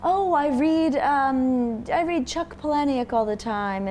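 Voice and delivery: mock British accent, pitch lifted; weird British accent. Mocking a date showing off reading, in a weird British accent. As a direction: put on a half-baked British accent. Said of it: "I'm doing a weird British accent".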